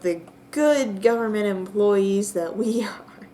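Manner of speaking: whispered through a laugh. Real, not acted. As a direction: whisper it, cracking up. Joking about hunting gnome.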